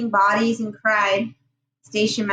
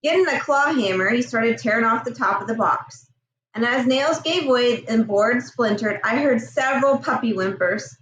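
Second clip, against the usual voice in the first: story narration. A narrator's reading. Reads novel chapter aloud.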